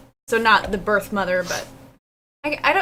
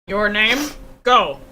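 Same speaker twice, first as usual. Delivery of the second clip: demonstrating a firm lowered voice; slower than usual. Shown as a demonstration. Showing how to send a child away, lowered voice. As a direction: drop the voice for a calm order. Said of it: "If I lower my voice and say".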